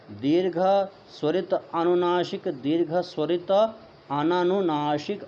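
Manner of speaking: each term said clearly with a pause, ह्रस्व leading every item; measured recitation. Shown as a demonstration. Teacher showing students how to say the terms, deliberate recitation. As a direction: recite the list carefully like a Sanskrit teacher. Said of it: "ऐसा इसका उच्चारण आप करेंगे।".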